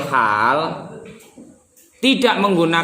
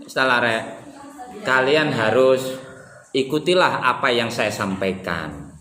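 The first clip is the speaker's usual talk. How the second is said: cool and calm; 4 semitones lower than usual. Shown as a demonstration. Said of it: "Eh, cool kan?".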